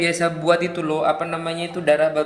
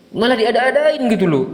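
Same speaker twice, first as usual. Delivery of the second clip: real exasperation, pitched up and louder; exasperated; 5 semitones higher, 4 dB louder than usual. Real, not acted. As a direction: let the annoyance rise in your voice. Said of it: "Jengkel jadi campur aduk itu".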